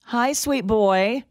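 tender. Real, not acted. Greeting caller's toddler.

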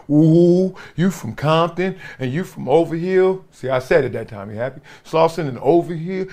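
mock the haters who said you won't make it; mocking doubters. Doubters telling him he won't make the NFL, mild mocking ooh. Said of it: "everybody was saying".

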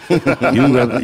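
mock teasing voice. Mocking friends' teasing.

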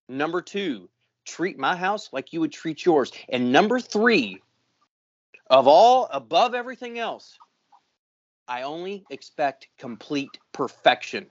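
a stern boss laying down the law, half-hammed; old guy yelling at a young buck, replayed with a rising peak; retold yelling lecture. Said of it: "the old guy yelling at the young buck".

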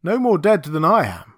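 emphatic denial; said slowly. Acted. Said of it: "he said slowly".

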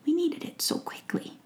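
a kind witch recalling the potion; kindly old witch. Acted. Witch explaining to Faith how she healed her, kindly.

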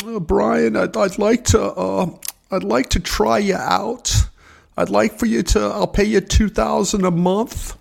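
hint of a hesitant old boss; imitating the old boss. Retelling the boss's offer, mock boss voice.

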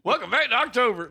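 high mock spooky host. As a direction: ham up the intro. Imitating the spooky intro.

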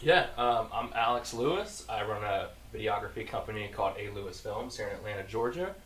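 off-mic, turned toward camera; speaking away from the microphone. Real, not acted. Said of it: "talk into the mic, 'cause when you go like this".

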